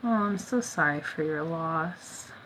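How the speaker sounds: slow, tender sympathy; condolence. Real, not acted. Condolences for a viewer's loss, sympathetic. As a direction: offer condolences slowly and gently.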